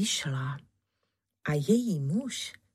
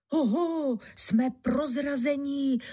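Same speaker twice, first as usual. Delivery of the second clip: startled exclamation; 8 semitones higher than usual. A narrator's reading. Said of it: "zvolal náčelník lupičů".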